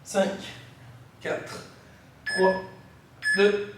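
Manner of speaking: breathless and strained mid-workout; puffing, short on air from the exercise; out of breath. Real, not acted. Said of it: "faites une pause comme moi".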